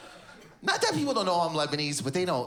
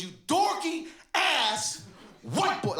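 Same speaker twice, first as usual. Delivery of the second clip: put-on DORKY, ASS and WHITE BOY each punched as separate high beats, slowly; beat-by-beat delivery; 10 semitones higher, much slower than usual. Comic retelling a stranger's insult, beat by beat. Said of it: "so many beats".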